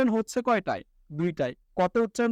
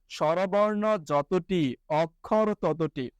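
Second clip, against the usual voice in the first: very slow, spelled-out rule for dictation; slow emphatic rule; 4 semitones lower, much slower than usual. Shown as a demonstration. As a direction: lay the rule down word by word, slowly. Teacher stating the rule. (ধীরে ধীরে জোর দিয়ে নিয়ম বলা)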